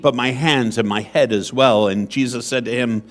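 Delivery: measured, solemn reading of scripture; Gospel proclamation. Acted. Priest proclaims the Gospel to the seated congregation, solemn and measured.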